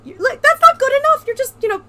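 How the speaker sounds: high whiny put-on voice; squeaky mock complaint. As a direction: whine it up high and loud.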